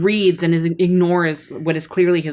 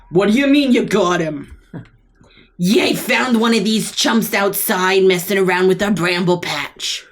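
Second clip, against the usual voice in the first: snake wife. Acted. Snake wife answers husband.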